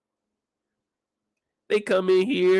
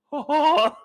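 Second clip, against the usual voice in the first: mock giggle; 6 semitones higher than usual. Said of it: "Big T said".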